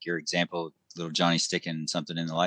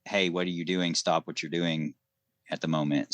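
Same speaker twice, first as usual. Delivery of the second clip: stern. Retold or imitated. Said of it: "was so stern with my".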